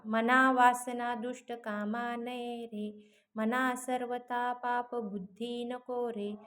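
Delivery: slow, measured reading of a verse; slow verse recitation. Shown as a demonstration. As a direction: recite the shloka slowly, syllable by syllable. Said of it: "नववा".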